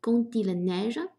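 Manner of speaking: "Quand il" linked with a t sound, "kan-til"; slow model of "Quand il neige", linking d as t into "il"; liaison. Shown as a demonstration. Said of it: "quand里面的de和il连读哈".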